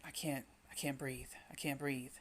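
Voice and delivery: whispered, losing breath; a gasping whispered plea; panicked whisper. Acted. Voicing someone unable to breathe.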